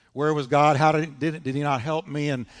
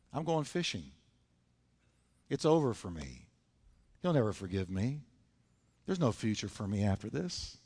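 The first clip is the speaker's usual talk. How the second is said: low, soft resignation; dejected; 4 semitones lower, 5 dB quieter than usual. Retold or imitated. Peter walking away after his failure, dejected. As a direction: give up quietly, voice sunk.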